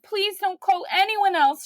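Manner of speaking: blurting yes before anyone else can claim her; eager. Retold or imitated. Mother to adoption worker on the phone, begging with a high excited laugh.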